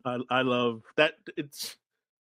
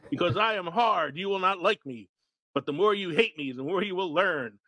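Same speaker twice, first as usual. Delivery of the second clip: lightly voiced sergeant monologue; drill sergeant; 5 semitones higher than usual. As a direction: bark the speech at recruits. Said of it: "his opening monologue".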